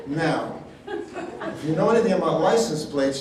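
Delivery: laughing. Real, not acted. Talking through laughter.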